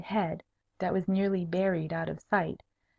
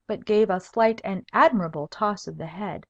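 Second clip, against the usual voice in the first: ordinary delivery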